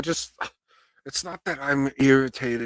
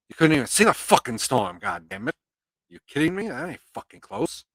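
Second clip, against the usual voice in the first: higher-pitched, exasperated retort; hammed-up incredulous protest; mock outrage; 6 semitones higher than usual. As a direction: act out indignant disbelief. Acted incredulous reply in retold exchange.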